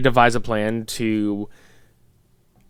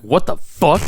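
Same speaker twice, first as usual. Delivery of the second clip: shocked viewer; 5 semitones higher, 3 dB louder than usual. Retold or imitated. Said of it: "and you're like".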